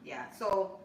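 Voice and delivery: talking while eating bread; words through a mouthful of bread; mouth full. Real, not acted. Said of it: "sorry, I'm eating the bread".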